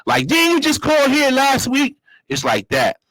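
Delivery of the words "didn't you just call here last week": higher, put-upon operator voice; a weary clerk who's heard it all; irritated phone operator. Retold or imitated. Operator recognizing the caller, mock-annoyed. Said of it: "they recognizing voices".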